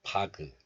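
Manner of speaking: 바그 with the final g released into a vowel; released final consonant. Shown as a demonstration. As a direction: wrongly let the end of 바그 go. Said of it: "You don't release the sound like".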